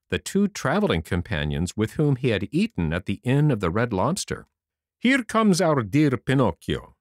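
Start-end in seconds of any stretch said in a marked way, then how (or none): 5.0-7.0 fox voice. Acted. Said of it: "cried the fox".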